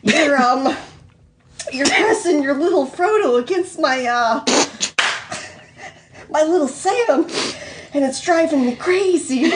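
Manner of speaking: bashful, hesitant confession; flustered, blushing. Acted. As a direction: stumble through it with awkward pauses. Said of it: "blushing bright red".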